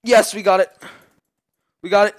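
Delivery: high, loud gamer cheer; real excited yelling. Real, not acted. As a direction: celebrate the win out loud. Teamfight win in game.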